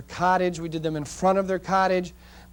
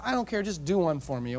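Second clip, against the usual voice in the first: insistent; 6 dB quieter than usual. Retold or imitated. Client pleads for one more shot.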